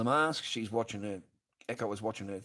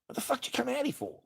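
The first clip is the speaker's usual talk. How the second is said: fast, much higher furious shriek; shrieking yell; faster than usual. Retold or imitated. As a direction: scream it at her. Retelling yelling at ex.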